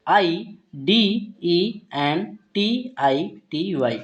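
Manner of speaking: slow, letter-by-letter spelling; teacher spelling out a word. Shown as a demonstration. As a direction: read each letter slowly for learners. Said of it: "इस word को हम क्या पढ़ते हैं".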